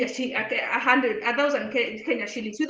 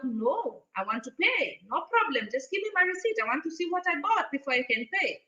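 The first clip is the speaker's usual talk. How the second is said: calm insistence; 6 dB quieter than usual. Retold or imitated. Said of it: "And I'm just like".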